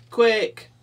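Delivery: "Quick!" as a high, loud quack with an "i"; quack with borrowed I. Acted. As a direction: duck call "Quick!", short "i" in place of ah. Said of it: "Try my ear".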